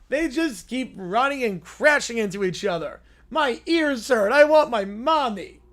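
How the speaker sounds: put-on bratty little kid whining about football; pouty spoiled child, mock outrage; whiny kid voice. Streamer reading a silly kids' skit, as a whiny child.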